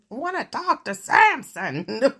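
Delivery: slow question through laughter; real amused laugh. Real, not acted. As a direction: giggle it out. Laughs about elephant name.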